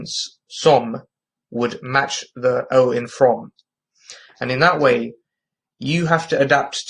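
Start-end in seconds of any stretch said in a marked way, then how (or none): 0.0-3.5 "some" with a rounded northern vowel, like the O in "from"; bad northern accent. Shown as a demonstration. Teacher matching the O in from, bad northern accent. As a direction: make "some" rhyme with "from", northern English style. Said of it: "very bad impression of a sort of northern accent".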